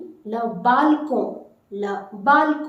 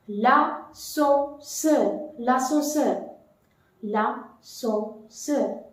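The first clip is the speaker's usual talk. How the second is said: slow model word; 3 dB quieter, much slower than usual. Shown as a demonstration. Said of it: "Now what about the lift?".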